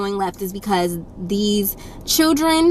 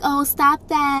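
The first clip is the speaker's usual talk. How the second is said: light, higher pleading tone; mock weak parent; 5 semitones higher, slower than usual. Parents asking the child to behave, mock weak scold. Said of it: "they'd be like".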